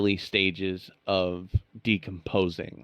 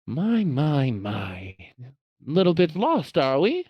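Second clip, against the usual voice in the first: a hint of a sinister cleric, louder; booming villain; 7 semitones higher, 4 dB louder than usual. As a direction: let it carry through the halls, taunting. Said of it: "his voice is carrying through the halls".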